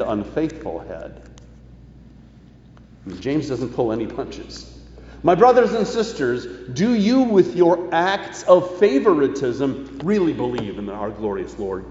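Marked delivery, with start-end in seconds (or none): 5.2-11.8 rebuking apostle. Acted. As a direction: call the congregation out like James. Voices James's rebuke.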